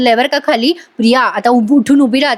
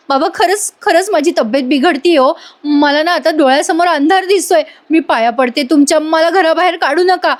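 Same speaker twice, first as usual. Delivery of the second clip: higher-pitched, imploring plea; acted begging; 5 semitones higher than usual. Priya begs father-in-law not to evict her, acted pleading. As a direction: imitate a dramatic plea for mercy.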